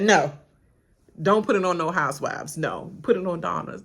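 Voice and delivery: loud firm refusal; loud protest. Retold or imitated. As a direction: shut it down loudly. Housewife objecting loudly.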